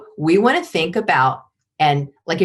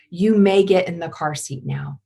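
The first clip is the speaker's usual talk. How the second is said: calm command. Shown as a demonstration. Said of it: "It's very different than".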